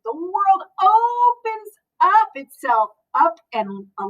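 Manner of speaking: gentle, even storybook reading; reading to children. Acted. Librarian reading a picture book to the class, gentle storytelling. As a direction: read it like story time for a class.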